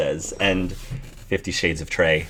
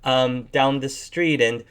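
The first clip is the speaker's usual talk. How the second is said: higher, stumbling excuse; flustered bat woman; 6 semitones higher than usual. Acted. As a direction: make up a lie on the spot.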